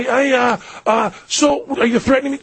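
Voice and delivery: high, hesitant and gentle; really gentle. Retold or imitated. Father with baby daughter questioning a stranger, gently. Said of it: "being really gentle with this guy".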